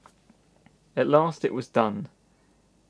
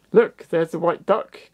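higher, louder, slower call; excited cry; 6 semitones higher, 6 dB louder, slower than usual. Acted. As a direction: call it out as a thrilled girl. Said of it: "cried Susie".

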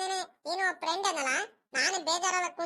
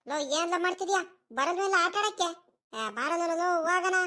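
lightly raised call to a friend; 3 semitones higher, 3 dB louder than usual. Acted. Friend calls Sunila to come and play, calling out. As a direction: call him out to play, a touch eager.

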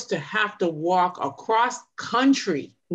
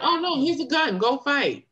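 mock offhand official; 7 semitones higher than usual. Mocking officials handing out guns.

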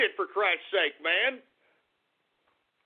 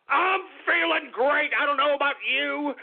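feeling great; 6 semitones higher than usual. Real, not acted.

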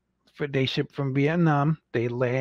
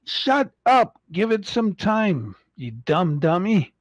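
high, sharp mock put-down of impatient fans; mock scolding; 6 semitones higher than usual. Collector telling eager fans to be patient, mock scolding. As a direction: scold them like a bossy older sibling. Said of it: "I'm like".

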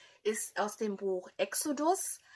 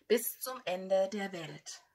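whispered; 3 dB quieter than usual. Real, not acted. Quoting Jesus' promise softly.

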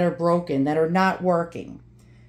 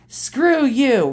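higher, imitated Brooklyn brush-off; Ronnie's New York accent; 5 semitones higher than usual. Dad's friend tells off the melters, New York accent. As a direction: toss it out as a blunt old New Yorker. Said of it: "Ronnie said".

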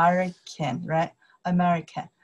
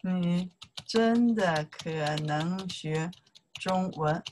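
slow wrong version; slower than usual. Shown as a demonstration.

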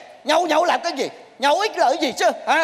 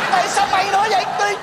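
higher, startled scolding; exasperated disbelief; 5 semitones higher, faster than usual. Acted. Magician finds the wrong man in his cabinet, exasperated disbelief. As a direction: demand an explanation in dismay.

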